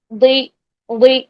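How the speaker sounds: دوئی as a heavy ضی, tongue sides back; heavy ضاد with kasra. Shown as a demonstration. Teacher drills kasra for students, heavy ضی. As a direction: hold دوئی heavy into a long "ee". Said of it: "کسرہ کے ساتھ practice".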